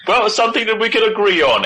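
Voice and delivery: quick, high, teasing; cheeky agreement. Retold or imitated. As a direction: toss it off cheekily. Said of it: "And I'm like".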